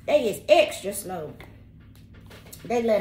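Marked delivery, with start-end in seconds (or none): 0.0-1.3 slow, spelled-out emphasis; drawn-out slow. Shown as a demonstration. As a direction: stretch it slowly like spelling it. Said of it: "somebody is extra S L O W".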